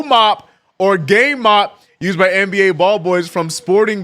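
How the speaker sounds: measured product-description read; read-aloud. Acted. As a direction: read it out like product copy, stressing key names. Reads out an answer from Gemini.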